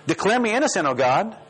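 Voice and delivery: demanding prayer. Acted. Preacher reads out the psalmist's plea to God, demanding. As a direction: pray it boldly, pitch lifted, as a demand. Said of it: "it's a pretty demanding prayer".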